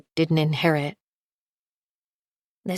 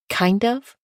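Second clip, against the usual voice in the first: incredulous echo; 6 semitones higher than usual. A narrator's reading. Narrator echoes in disbelief.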